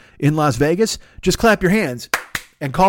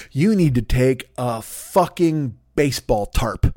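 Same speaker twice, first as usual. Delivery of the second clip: mock boss order; much slower than usual. Boss instructing chefs, acted quote.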